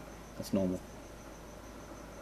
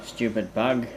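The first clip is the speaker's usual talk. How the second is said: cold rasping evil emperor; much slower than usual. Acted. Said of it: "we're doing the voices now".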